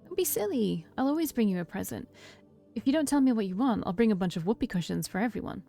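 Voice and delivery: put-on lightly cheerful, teasing older sibling; happy tone. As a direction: keep it upbeat for a little sister. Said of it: "keep a happy tone in my voice".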